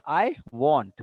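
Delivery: "want" given the weight; stress on WANT. Shown as a demonstration. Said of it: "I what?".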